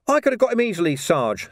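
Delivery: high-pitched youthful grumble; aggrieved young recruit; complaining. A narrator's reading. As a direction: whine it high to the sergeant. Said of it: "Sam complained".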